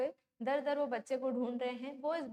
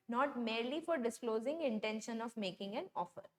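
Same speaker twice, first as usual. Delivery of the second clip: slow dictation; 2 semitones lower, much slower than usual. Shown as a demonstration. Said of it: "reads rule line aloud".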